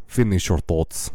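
imitated Moldovan husband's accent; curt line in mock Moldovan accent. Husband correcting his talking wife, imitated Moldovan accent. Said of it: "I'm doing this accent".

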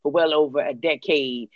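lightly voiced T.I., reading a formal statement; a hint of T.I. issuing an official warning; T.I. impression. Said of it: "That's my T I voice".

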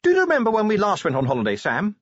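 high, quick lady's voice; chatty wife. A narrator's reading. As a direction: ask your husband brightly, fast and high. Narrator voices wife chatting on journey.

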